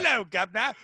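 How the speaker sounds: amateur mock Cockney greeting; lazy British accent. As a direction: toss off a bad British impression. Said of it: "'cause I'm not an impressionist".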